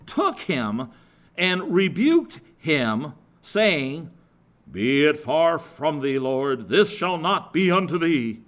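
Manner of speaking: loud, slow, forceful rebuke; Peter rebuking. Retold or imitated. Peter rebuking Jesus, loud and forceful. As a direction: scold the Lord with heavy insistence. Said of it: "I'm kind of improvising there".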